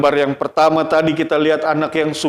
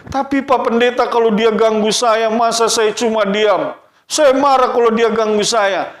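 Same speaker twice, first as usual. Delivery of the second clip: lightly voiced child's higher-pitched objection; mildly indignant kid arguing back; protesting child; 4 semitones higher than usual. Child objecting to the pastor about being bothered, mild protest.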